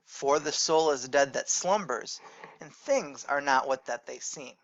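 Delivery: steady, even recitation of the verse; poem reading. Shown as a demonstration. Teacher reads Longfellow to the class, even recitation. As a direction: read it out like a poem.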